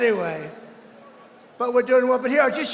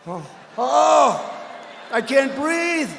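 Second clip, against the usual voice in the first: hammed-up gasping, pleading voice; mocking a rival choking on stage; mock choking Bloomberg; 3 semitones higher, much slower than usual. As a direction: play a panicky debater gasping for air. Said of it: "He's going".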